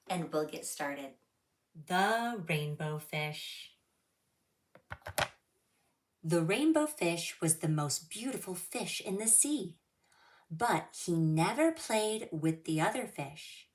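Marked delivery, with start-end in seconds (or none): 1.9-13.7 expressive storybook reading; reading to children. Acted. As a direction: read it like storytime for little kids.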